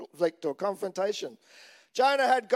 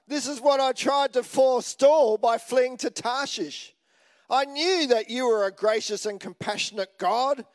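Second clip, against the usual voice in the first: whinging Jonah; 4 semitones higher, 3 dB louder than usual. Retold or imitated. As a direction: moan at God as if wronged. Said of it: "He was whinging in his prayer".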